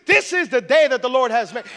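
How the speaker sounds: loud, upbeat proclamation; grateful enthusiasm. Acted. Grateful person greeting a rainy day, loud enthusiasm. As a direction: declare it with big joyful energy. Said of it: "somebody that has a grateful heart".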